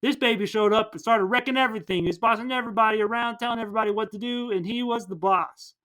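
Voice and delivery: hammed-up film narrator, mostly quick; adult Tim narrating. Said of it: "adult Tim narrating".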